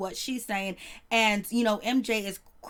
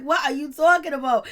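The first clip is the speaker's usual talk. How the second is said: incredulous; 4 semitones higher, 6 dB louder than usual. Retold or imitated. Her own disbelief, laughing.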